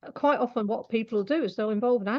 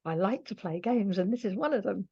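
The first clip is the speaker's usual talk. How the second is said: put-on young-sounding pet voice. Animal communicator relaying a pet's clear voice, lightly voiced young animal. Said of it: "to give you an idea of what it sounds like".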